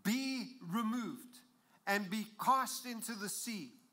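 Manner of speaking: slow, drawn-out command; spoken with authority. Shown as a demonstration. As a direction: order the mountain away, stretching each word. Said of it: "have a little bit of authority".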